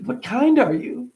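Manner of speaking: high, slow sing-song question; mother playfully asking the kid what kind of dinosaur. Retold or imitated. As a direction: ask it like a mom humoring a kid. First, wrong-order take of dialogue.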